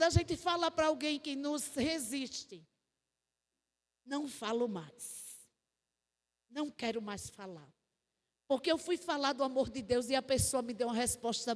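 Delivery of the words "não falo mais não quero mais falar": low, quiet acted resignation; resigned giving-up. Someone rebuffed decides to stop speaking, quietly resigned.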